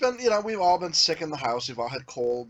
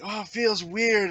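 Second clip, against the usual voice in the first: put-on uneasy kid; 6 semitones higher, slower than usual. Voices son with upset stomach.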